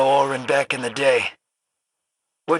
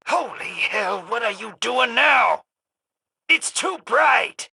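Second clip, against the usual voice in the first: startled; 5 semitones higher than usual. Acted. Blinded by sudden light.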